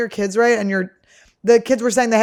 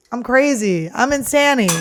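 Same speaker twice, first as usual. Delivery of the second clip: hyped up; 4 semitones higher, 4 dB louder than usual. Pretend. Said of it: "where's my energy level? We gotta get it up".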